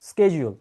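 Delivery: Schedule said slowly as "SKE-jul"; correct pronunciation. Shown as a demonstration. Teacher repeating it for the learner, Schedule as "SKE-jul". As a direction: model Schedule with an "sk" start. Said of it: "right way to pronounce this word".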